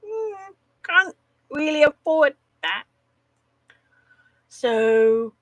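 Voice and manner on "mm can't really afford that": wistful inner voice. Retold or imitated. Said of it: "and I'm like".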